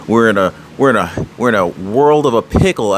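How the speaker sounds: a hint of folksy grandpa; grandfather's saying. Vlogger quoting his grandfather's old saying, lightly folksy. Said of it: "as my grandfather would say".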